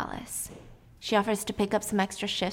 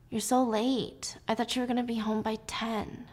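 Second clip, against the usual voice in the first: mild whining; 6 dB quieter than usual. Acted. Husband greeting wife home late, kind of whining. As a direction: complain softly, stretching the words. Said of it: "he's kind of whining".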